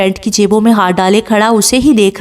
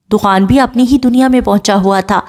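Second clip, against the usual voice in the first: ordinary delivery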